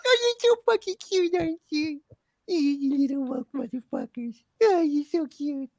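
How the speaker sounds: put-on very high, squealing baby-talk; strained, sarcastic gushing squeal; heavy sarcasm. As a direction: coo with venomous mock sweetness. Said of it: "like, being so sarcastic".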